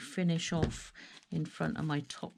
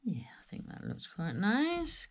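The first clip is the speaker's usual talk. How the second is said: whispering to herself; 5 dB quieter than usual. Real, not acted. Murmuring to herself while working.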